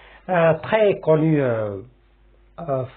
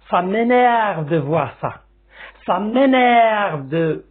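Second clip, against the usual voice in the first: slow, pressed and louder, rising irritation; mock anger; 4 semitones higher, 3 dB louder, slower than usual. Shown as a demonstration. Teacher acting out an angry expression for students, mock irritated. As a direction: act out being fed up. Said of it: "je peux utiliser une autre expression".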